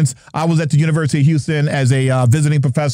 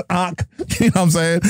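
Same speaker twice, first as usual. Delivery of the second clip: Jersey talk; 2 semitones higher than usual. Shown as a demonstration. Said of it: "I'm from Jersey".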